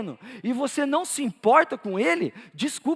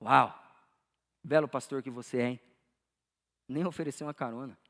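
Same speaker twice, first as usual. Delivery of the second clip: low, soft voice of reproach; a quiet, deep nudge to the conscience; God's inner voice; 9 semitones lower, 6 dB quieter than usual. Retold or imitated. God chiding the pastor in his heart, low understated voice. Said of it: "Deus falou no meu coração".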